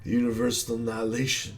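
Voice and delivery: lightly voiced villain boss, mocking; a hint of a gloating hunter villain. Villain taunting the hero, mild mock menace.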